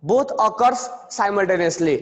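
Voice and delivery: slow, stretched definition; dictation. Shown as a demonstration. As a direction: say it slowly so they can follow.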